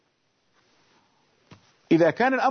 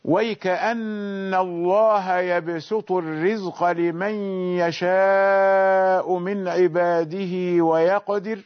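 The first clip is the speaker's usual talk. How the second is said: slow measured Quranic chant; Quran recitation; slower than usual. Shown as a demonstration. Teacher reciting the verse slowly to students. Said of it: "إذا قرأت قول الله تعالى".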